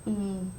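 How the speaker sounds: "Eat" as separated sounds, vowel held, final t apart; "Eat" broken into slow, separate sounds; sounding out. Shown as a demonstration. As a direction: sound out "Eat" slowly with gaps for counting. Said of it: "count the sounds that I hear".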